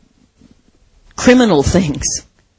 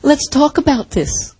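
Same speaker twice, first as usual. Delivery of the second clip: gentle invitation; 4 semitones higher than usual. Retold or imitated. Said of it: "I wanna put my arms around them and I wanna say".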